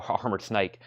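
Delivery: "Armored Snake" said softly through a chuckle; laughing. Shown as a demonstration. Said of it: "a word like Armored Snake".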